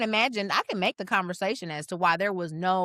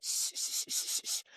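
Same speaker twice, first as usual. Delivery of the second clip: soft unvoiced shh, hushing a child; mother hushing her crying child, whispered; retold whispered shushing; 10 dB quieter than usual. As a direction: shush them quietly so Daddy won't hear. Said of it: "And our mother said".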